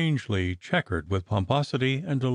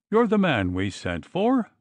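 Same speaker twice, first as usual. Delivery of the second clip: gruff demand; 8 semitones higher than usual. Acted. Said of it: "demanded Dillon gruffly".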